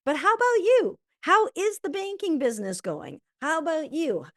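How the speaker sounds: keen friend asking how they are; eager turn back. Acted. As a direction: toss the spotlight back with eager interest. Turning the question back eagerly.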